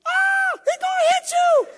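high-pitched, loud panicked shriek; imitated scream. Wife warning driver of an oncoming car, screaming. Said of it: "You screamed".

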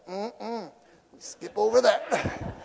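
very slow skip over that; slow dismissive. Retold or imitated. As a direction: drag it out dismissively. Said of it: "you're like".

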